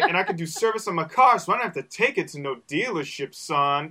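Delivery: lightly mimicked bragging rapper, laughter in it. Cohost quoting a rapper boasting about car repairs, playfully proud. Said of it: "And he's like".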